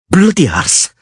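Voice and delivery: hissed curse. A narrator's reading. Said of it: "she hissed".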